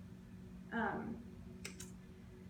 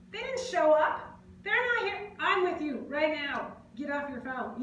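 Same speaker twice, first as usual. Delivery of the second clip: exasperated rebuke; 4 semitones higher, 6 dB louder than usual. Retold or imitated. Speaker telling a phone-absorbed friend off, exasperated. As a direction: scold them, pitched up.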